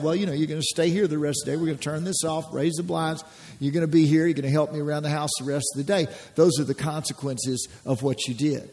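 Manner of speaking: a father calmly telling his son about the missed mowing; calm parent. Retold or imitated. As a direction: lay out the consequences without heat. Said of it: "See, there's no emotion".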